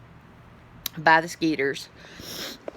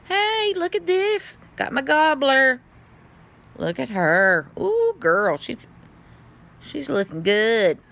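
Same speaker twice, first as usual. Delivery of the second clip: gushing; 7 semitones higher, slower than usual. Real, not acted. Showing off her plant, gushing.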